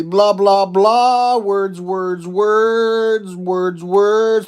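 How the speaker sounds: loud, high nonsense chant; loud blah blah. Pretend. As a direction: belt out the filler words.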